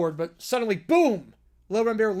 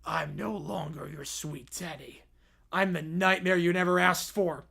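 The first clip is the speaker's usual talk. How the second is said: growl; 3 semitones lower than usual. Acted. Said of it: "and growls".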